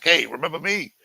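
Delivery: high, whiny mocking impression of the moocher; mock drifter voice. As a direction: play the pathetic guy sweet-talking old acquaintances. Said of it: "Driving up to random people's houses like".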